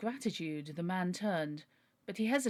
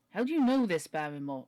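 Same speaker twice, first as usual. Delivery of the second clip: put-on wrong accent for Sir Henry; 6 dB louder than usual. Sir Henry questions butler Barrymore, voiced in the wrong accent. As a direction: slip into another character's accent, pitched up and forceful. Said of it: "wrong accent".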